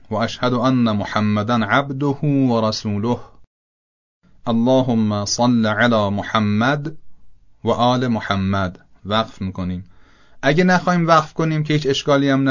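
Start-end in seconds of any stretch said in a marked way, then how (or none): 0.1-8.8 correct recitation. Shown as a demonstration. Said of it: "پس عبارت صحیح اینطوری شد".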